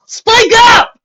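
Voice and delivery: high, loud yell over the wind. A narrator's reading. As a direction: shout across the storm to her. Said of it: "Applejack yelled over the winds".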